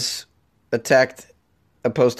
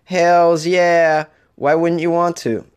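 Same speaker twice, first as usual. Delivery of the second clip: hyped shout; 5 semitones higher, 4 dB louder, slower than usual. Real, not acted. Hyping up Patreon support.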